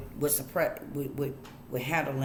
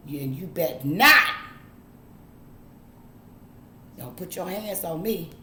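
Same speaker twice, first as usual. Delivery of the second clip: stern parent. Retold or imitated. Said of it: "they told us".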